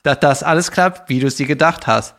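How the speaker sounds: lightly hammed-up canned greeting; cheesy celebrity greeting. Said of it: "ich mach dir mal ein Beispiel".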